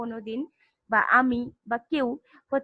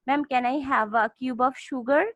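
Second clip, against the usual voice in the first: slow student request; much slower than usual. Retold or imitated. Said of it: "বললা কি যে".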